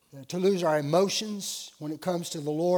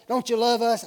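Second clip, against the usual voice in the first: imitated guilt trip, pitched up; mock-hurt appeal to shame him into it; guilt-tripping; 6 semitones higher, 7 dB louder than usual. Youths pressing their leader to swim, mock guilt trip. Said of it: "they put the guilt trip on me".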